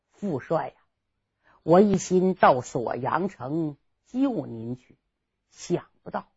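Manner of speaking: a soft, sinking sigh of regret, held back; low, quiet lament. Acted. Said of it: "心里暗暗难过". (低声悲叹，满腔委屈)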